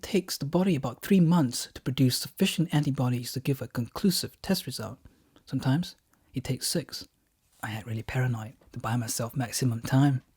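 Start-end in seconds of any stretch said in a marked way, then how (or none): 5.4-7.1 whispered aside. Acted.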